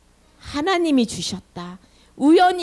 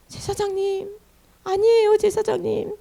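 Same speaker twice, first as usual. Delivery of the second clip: acted plea, starting high then easing down; mock tearful pleading; 5 semitones higher than usual. Hannah explaining herself to the priest, lightly tearful plea. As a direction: plead your case as if near tears, lightly acted. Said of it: "하면서 막 울면서 자기 사정을 얘기해요".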